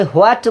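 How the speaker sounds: হোয়াট begun with an h before the w; mistaken h pronunciation. Shown as a demonstration. Teacher shows students the mistake to avoid, mistaken h pronunciation. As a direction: sound an extra h at the front of "হোয়াট". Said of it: "এটা ভুল উচ্চারণ".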